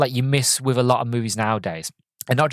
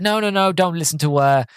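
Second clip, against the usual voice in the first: shouting no; 5 semitones higher than usual. Retold or imitated. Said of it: "uh, Jen is like".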